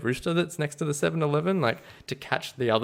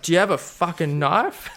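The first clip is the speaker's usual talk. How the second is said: gruff trucker; 5 semitones higher than usual. Retold or imitated. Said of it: "this real gruff trucky guy".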